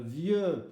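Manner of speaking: "vieux" with the final X left silent. Shown as a demonstration. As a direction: say "vieux" with no X sound. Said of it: "le X ne se prononce pas".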